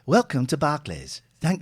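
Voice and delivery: robotic recorded greeting; automated phone voice. Acted. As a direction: sound like an automated phone line. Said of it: "this is an automated one".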